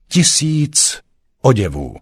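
high, proud proclamation. A narrator's reading. Councillor Štrum musters strength before the ratcatcher, proudly proclaiming. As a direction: declare it high with all your pride. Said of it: "říci ve dvou slovech všechnu svou hrdost".

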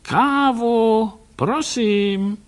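high call toward the door; loud, high call to the policemen; calling loudly. A narrator's reading. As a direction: call for coffee so they hear outside. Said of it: "Hlasitě pak zavolal".

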